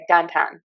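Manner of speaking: "downtown" with both diphthongs flattened; Pittsburgh pronunciation. Shown as a demonstration. Explaining her hometown accent to learners, "downtown" in Pittsburgh pronunciation. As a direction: say "downtown" with simple, reduced vowels in place of "ow". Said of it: "we say downtown".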